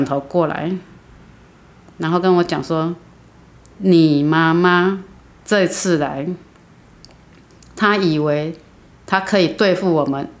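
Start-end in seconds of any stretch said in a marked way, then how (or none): 3.8-10.3 slow, strange voice that isn't her own; a lightly voiced possessed girl threatening the mother; eerie other voice. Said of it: "不是他的声音，就是用另外一种口气".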